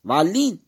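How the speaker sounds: ضالين with the alif cut short; no long alif. Shown as a demonstration. Teacher demonstrating a wrong, clipped ضالين. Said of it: "فماكو ضالين".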